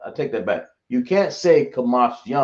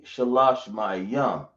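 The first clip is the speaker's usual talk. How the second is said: slow teaching demo; much slower than usual. Shown as a demonstration. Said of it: "you can say".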